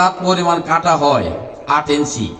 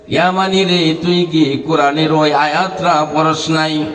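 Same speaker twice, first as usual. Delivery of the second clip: gently intoned preaching near the usual pitch; sing-song preacher's lament; melodic sermon storytelling. Acted. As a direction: chant the reply to the pilgrim.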